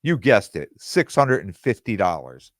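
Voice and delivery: usual speaking voice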